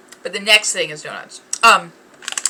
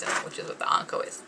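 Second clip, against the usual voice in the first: soft unvoiced whisper; 5 dB quieter, faster than usual. Real, not acted. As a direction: breathe it as a secret aside. Aside about anko filling.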